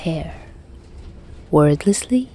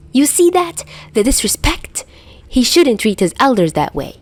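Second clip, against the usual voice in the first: hammed-up, raised grumble; overdramatic grumble; 6 semitones higher, 3 dB louder than usual. A narrator's reading. Dazai grumbling to Chuya about Atsushi, hammed up and raised. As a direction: play the wronged elder, overdone. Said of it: "Dazai grumbled overdramatically".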